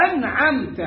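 أنعمت with the نون clear and quick; a clean correct أنعمت; correct form. Shown as a demonstration. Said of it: "قل".

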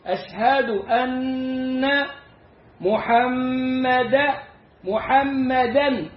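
very slow أشهد أن محمدا, each doubled letter held; slow recitation. Shown as a demonstration. Teacher reciting slowly for students. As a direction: lean on the ن of أن and the م of محمدا. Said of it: "اسم إن منصوب".

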